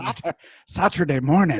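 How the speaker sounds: dubious Irish brogue; Irish accent that slips toward Scottish; attempted Irish accent. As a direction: try out a bad Irish accent. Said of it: "is that your Irish accent?".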